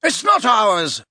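put-on high, drawn-out young gentleman; young man. A narrator's reading. Tom to the girl, dismissive young man. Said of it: "said a young man's voice".

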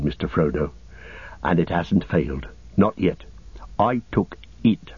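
understated, steady character voice; lightly voiced Sam. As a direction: lightly play a humble hobbit reassuring his master. Sam reassures his master.

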